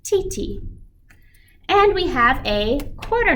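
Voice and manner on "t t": rhythm syllables. Shown as a demonstration. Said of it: "eighth notes, remember, get half a beat each".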